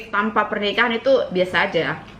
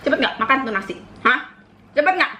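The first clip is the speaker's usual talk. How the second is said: mock nagging mum, snapping the repeat higher; a hammed-up scolding mother; imitating angry mother; 4 semitones higher, faster than usual. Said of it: "Gitu, mamaku kalau marah".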